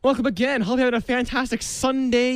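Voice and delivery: smooth station announcer delivery; radio DJ read. Acted. Host announces the next song on his radio show. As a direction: sell the station ID.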